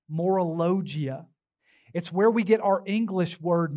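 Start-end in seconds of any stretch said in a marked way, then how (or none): 0.1-1.3 "Morologia" slowly sounded out; careful Greek pronunciation. Shown as a demonstration. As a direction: repeat "Morologia" slowly so they catch it. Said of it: "try to pronounce this".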